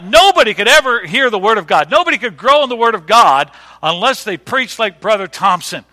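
loud, emphatic preacher's declaration; fervent conviction. Retold or imitated. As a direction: proclaim it with youthful certainty. Voicing his younger self's fervent belief.

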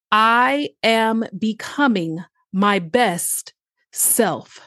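slow, deliberate affirmation; each word set apart, slowly; staccato. Shown as a demonstration. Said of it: "So take time to repeat that".

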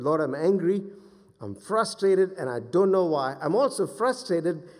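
loud, frustrated plea, re-enacted; angry prayer. Pastor retelling his prayer to the Lord, angry and frustrated. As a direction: act out venting to God. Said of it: "I'm really angry as I'm praying".

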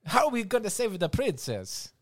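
Luigi pleading. Retold or imitated. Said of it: "I'll be Luigi".

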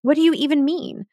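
imitating herself rattled and indignant, rising; agitated. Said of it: "I was really agitated by that question".

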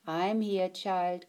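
soft, gentle grandma; grandma softly comforting a scared child; soft reassurance. Acted. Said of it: "Grandma said softly".

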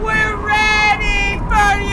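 high, loud, slow call. Acted. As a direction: summon the spirit inside. Summoning the ghost.

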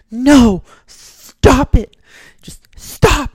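very high, loud protest; scolding shout. Retold or imitated. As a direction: shriek at him to stop it. Woman smacking her yelling companion.

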